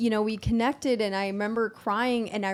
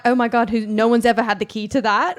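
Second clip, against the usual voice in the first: laughing; 3 semitones higher, 11 dB louder, faster than usual. Pretend. Laughing through playful imagined quote.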